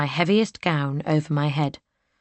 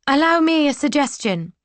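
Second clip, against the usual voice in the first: put-on young lady's voice; 11 semitones higher, 4 dB louder than usual. Heroine speaks up.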